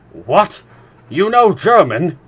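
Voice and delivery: astonished shout of what; exclaiming. A narrator's reading. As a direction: blurt it out in disbelief. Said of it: "I exclaimed".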